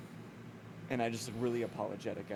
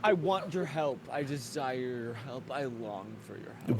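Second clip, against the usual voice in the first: archaic dramatic speech. Acted. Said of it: "Why do you keep speaking like this?".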